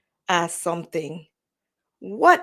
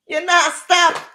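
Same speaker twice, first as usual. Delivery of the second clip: higher, louder repeated scold; 9 semitones higher, 9 dB louder than usual. Real, not acted. Vlogger scolding someone interrupting, loud. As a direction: bark it at them twice.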